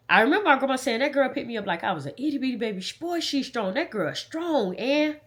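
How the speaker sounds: high-pitched, trying not to cry; holding back tears. Real, not acted. Recalling her grandma's praise, holding back tears. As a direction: fight back real tears while quoting her. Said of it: "I'm trying not to cry".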